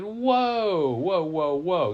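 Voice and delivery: loud, high drawn-out whoa, then quick repeats; taken aback. Acted. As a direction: halt them with an astonished string of whoas. Snake startled by surprising news.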